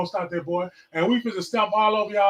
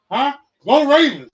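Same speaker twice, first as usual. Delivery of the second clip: higher, louder burst of Go Ravens; retold shout; 7 semitones higher, 8 dB louder than usual. Fan yelling at his screen as his Ravens score, shouting. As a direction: relive the moment the purple ran across the screen. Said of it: "and I just had to shout".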